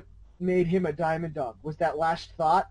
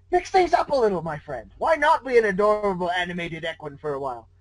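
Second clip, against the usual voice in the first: playful trickster, lines swooping up; sly trickster. Acted. Discord taunting the hero, playful and sly. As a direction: tempt him like a mischievous god.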